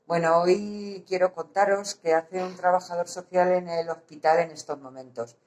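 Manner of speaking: muffled behind a mask; through a face mask. Real, not acted. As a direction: speak through a surgical mask. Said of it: "me canso de hablar con la mascarilla".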